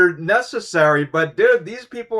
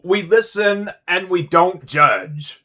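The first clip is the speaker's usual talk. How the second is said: mocking catchphrase; 2 semitones higher, slower than usual. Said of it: "mocking their catchphrase".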